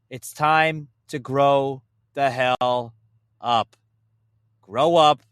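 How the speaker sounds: slow and loud, grow the hell up; stern telling-off, leaning on each word; scolding. Real, not acted.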